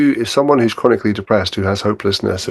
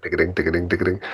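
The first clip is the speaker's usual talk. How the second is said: happy bumping along; 4 semitones lower, 9 dB quieter than usual. Acted. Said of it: "I'm bumping along".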